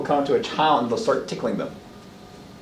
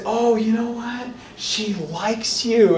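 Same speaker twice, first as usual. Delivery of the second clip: dismissive adult; 6 semitones higher, slower than usual. Retold or imitated.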